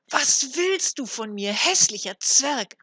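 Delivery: loud, high, slow outraged shout; angry cry. A narrator's reading. Mother recoils from the dwarf, loud angry cry. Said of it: "rief sie".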